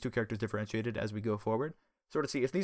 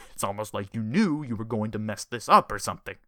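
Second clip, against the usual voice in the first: sarcastic; 5 dB louder than usual. Acted. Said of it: "he said sarcastically".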